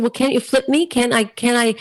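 mock indignant bargaining ending in a laugh; pleading protest. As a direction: argue your case with mock exasperation. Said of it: "I said".

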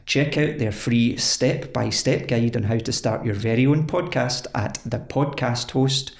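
scripted host's plug, carefully articulated; sponsor ad read. Acted. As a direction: sell it like a podcast sponsor spot. Reads a sponsor message.

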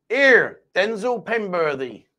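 slow, drawn-out West Country farmer; West Country accent. Shown as a demonstration. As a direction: draw it out in West Country dialect. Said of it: "West Country".

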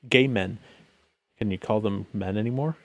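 ordinary talk

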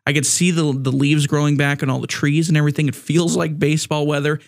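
dry mock enthusiasm; deadpan, tongue in cheek; sarcastic. Real, not acted. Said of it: "Just kidding".

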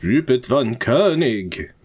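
slow borrowed vampire voice; lightly copying a co-host's vampire; copied vampire voice. Acted. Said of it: "He stole my voice".

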